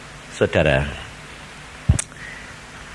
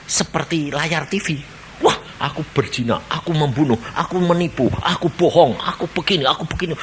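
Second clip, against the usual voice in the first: dismayed sinner; 3 semitones higher, 5 dB quieter than usual. Acted. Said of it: "Lalu dia lihat".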